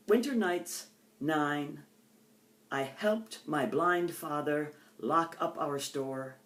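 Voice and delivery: slow, measured poetry recital; poem reading. Acted. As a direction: let each image land with a pause.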